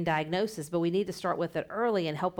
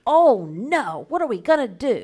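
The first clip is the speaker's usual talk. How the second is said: mock worry; 4 semitones higher, 8 dB louder, slower than usual. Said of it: "you can do a whole big thing and like".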